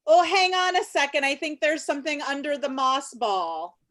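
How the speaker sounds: startled gasp at a monster; shocked discovery, rising; surprised. Acted. Discovers monster under moss.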